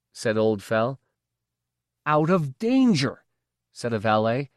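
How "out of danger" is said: sarcastic echo. A narrator's reading. Valet mocking the phrase.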